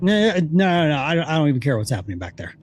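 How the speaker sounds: fast, waving it away; dismissive guard. Retold or imitated. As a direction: brush it off in a rush. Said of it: "I was like".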